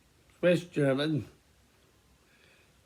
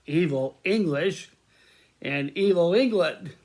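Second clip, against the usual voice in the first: scornful; 3 semitones higher, 4 dB louder than usual. Real, not acted. Scorn for the English.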